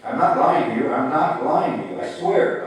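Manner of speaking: put-on boy near tears swearing to grandfather; beginning to cry. A narrator's reading. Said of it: "Ah Tong began to cry".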